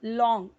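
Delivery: लॉन्ग with an open "aw" vowel; correct pronunciation. Shown as a demonstration. Teacher correcting students' reading, careful model pronunciation of लॉन्ग. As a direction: say लॉन्ग like "lawng". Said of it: "इसे लॉन्ग नहीं पढ़ना है".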